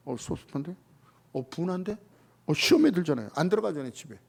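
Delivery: low, soft, sulky muttering; sulky grumble. Retold or imitated. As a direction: grumble it like a hurt believer. Acting out a sulking believer. (서운해서 투덜대는 말투)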